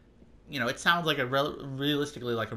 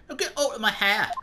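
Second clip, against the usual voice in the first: loud, high dismissive Scottish bark; amateur Scottish brogue, annoyed; Scottish accent; 8 semitones higher, 4 dB louder than usual. Acted. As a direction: shoo them off in a rough Scottish accent. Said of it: "some kind of Scottish accent".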